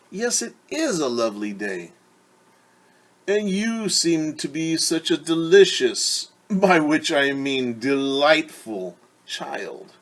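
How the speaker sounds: a lightly voiced wolf, slow and smooth; smooth-talk the girl while hiding hunger; sly wolf. Wolf sweet-talking Little Red on the path, slyly.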